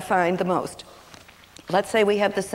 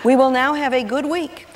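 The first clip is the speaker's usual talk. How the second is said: louder, higher and laughing; gleeful mother; 3 semitones higher, 4 dB louder than usual. Retold or imitated. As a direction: announce the fun with glee. Mother freed while husband away.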